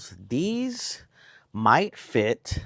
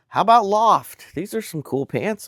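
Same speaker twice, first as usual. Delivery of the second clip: imitating the seller; 11 semitones higher, 7 dB louder than usual. Retelling the yard-sale seller offering pants, in a high hammed-up voice. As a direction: pitch the pants like an eager seller. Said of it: "was like".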